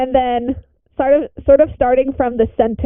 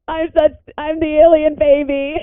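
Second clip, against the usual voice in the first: higher, half-laughing, half-sobbing repeat; cracking up in mock despair at the twist; laugh-crying disbelief; 5 semitones higher than usual. Real, not acted. Player realizing their character's secret, laugh-crying.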